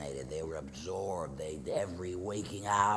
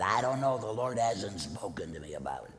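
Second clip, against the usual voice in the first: put-on exasperated teen, raised and louder; frustrated; 5 semitones higher, 6 dB louder than usual. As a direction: snap back in frustration. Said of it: "Chris got a little frustrated".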